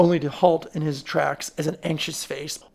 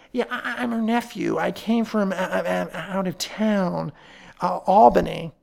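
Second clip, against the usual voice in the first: stammering nephew; 3 semitones higher, 3 dB louder than usual. Acted.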